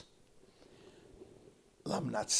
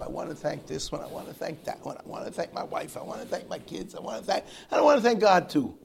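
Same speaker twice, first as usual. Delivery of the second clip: higher, repetitive list building to a loud last thanks; mock award speech, God tacked on loudly; acceptance-speech guy; 5 semitones higher, 8 dB louder, faster than usual. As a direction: imitate a winner rattling off thank-yous. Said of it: "Like the guy that gets up".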